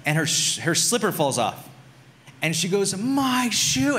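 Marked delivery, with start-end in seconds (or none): 3.0-4.0 high-pitched wail, not much louder; mock child's scream. Daughter crying over her fallen slipper, mock high scream. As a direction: imitate a crying kid's shriek, held back. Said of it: "she screams louder than you've ever heard anyone".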